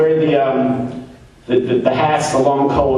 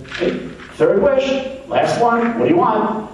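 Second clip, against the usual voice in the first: higher, brisk genie voice; Jewish genie; 8 semitones higher than usual. Acted. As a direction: rattle off the last wish as the genie. Genie asks last wish.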